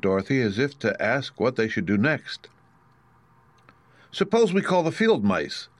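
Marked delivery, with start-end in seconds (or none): 4.1-5.7 put-on higher, hopeful young girl; lightly voiced little girl; girl's voice, suggesting. A narrator's reading. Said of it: "she suggested".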